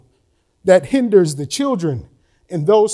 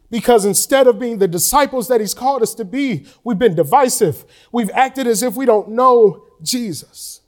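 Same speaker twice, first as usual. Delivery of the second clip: real emotion rising, pitch climbing higher; emotional; 4 semitones higher than usual. Real, not acted. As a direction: let the grief lift your voice up higher. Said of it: "I get a little emotional about it".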